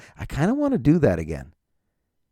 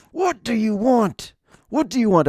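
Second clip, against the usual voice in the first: exasperated near-scream; 12 semitones higher than usual. Retold or imitated. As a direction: lose patience and yell it, pitched up. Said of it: "I was almost screaming".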